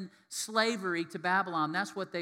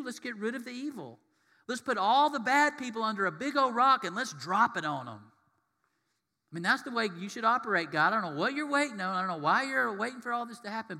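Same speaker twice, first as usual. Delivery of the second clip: louder, pushing God to hurry up; hammed-up demand that God act now, faster; mock impatient demand; 4 semitones higher, 5 dB louder than usual. Preacher voicing people who demand God punish the bad, mock insistent.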